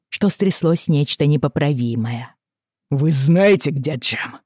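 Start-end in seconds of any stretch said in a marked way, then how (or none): 2.9-4.4 growling. Acted. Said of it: "зарычал он на Бакли".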